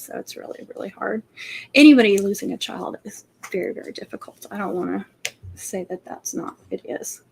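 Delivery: real tears, voice dropping to a breathy near-whisper; choked up, near tears. Real, not acted. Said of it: "can't even talk about it without getting emotional".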